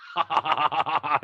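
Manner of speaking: long mocking cackle in someone's face; imitated hysterical laugh. Neighbor laughing in his face, imitated hysterical laugh. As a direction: laugh hard, as the neighbor did. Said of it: "he starts laughing his, I mean, laughing in my face, hysterical".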